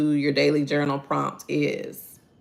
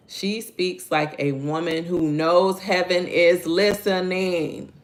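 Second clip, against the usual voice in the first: slow reverent reading; 3 semitones higher, slower than usual. Shown as a demonstration. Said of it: "reads the devotion quote".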